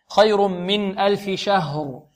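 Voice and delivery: measured, drawn-out recitation; slow recitation. Shown as a demonstration. Teacher recites the verse slowly to the class.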